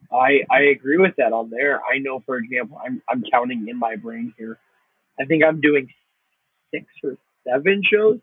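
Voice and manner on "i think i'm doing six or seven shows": words around a sip of coffee; while sipping a drink. Real, not acted. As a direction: talk between sips of coffee. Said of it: "I'm drinking some coffee here".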